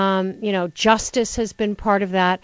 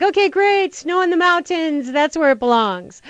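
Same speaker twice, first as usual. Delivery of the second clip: chirpy self-quote; 7 semitones higher than usual. Retold or imitated. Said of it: "I'm like".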